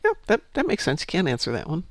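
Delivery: a high, airy imitation of the boss caving in; mock the boss giving up easily; quoting the boss. Recounting a tech-support story, the boss lightly mimicked agreeing. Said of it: "And the boss is like".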